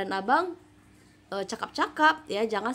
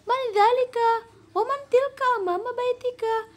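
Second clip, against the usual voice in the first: put-on much higher questioning girl's voice; Jamila asking; 12 semitones higher, 3 dB louder than usual. Shown as a demonstration. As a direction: ask eagerly as Jamila. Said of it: "Jamila bertanya lagi".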